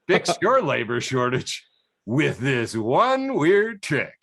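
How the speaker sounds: slow, drawn-out sarcastic ad voice; mock clickbait pitch. Mocking the clickbait headline to cohosts, slow sarcastic ad read. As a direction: stretch it out like a cheesy ad, mocking.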